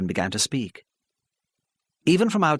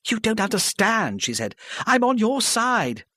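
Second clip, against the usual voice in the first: put-on higher, pleading older woman, halting; flustered older lady; 12 semitones higher than usual. Mrs Parry pleading with the hostile crowd, flustered. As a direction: stammer it out, desperate to be heard.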